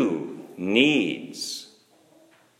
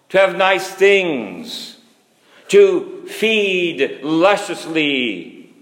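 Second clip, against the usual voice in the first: raised pitch, measured preacher's delivery; emphatic preaching; 6 semitones higher, 4 dB louder than usual. Acted. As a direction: drive each phrase home from the pulpit, pitched high.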